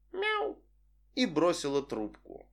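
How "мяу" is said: very high, soft kitten meow; mock meow. Vic teasing before hanging up, playful meow. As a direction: tease him with a cat sound.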